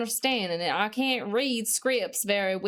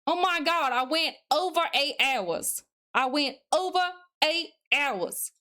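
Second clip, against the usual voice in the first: excited; 5 semitones higher than usual. Real, not acted. Realizes stream passed eight hours.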